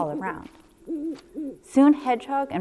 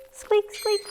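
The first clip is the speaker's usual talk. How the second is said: much higher squeak; lantern squeak; 13 semitones higher than usual. A narrator's reading. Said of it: "went the lanterns".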